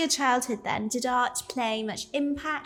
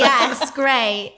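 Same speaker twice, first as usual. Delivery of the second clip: laughing; 9 dB louder than usual. Real, not acted. Laughing after joke.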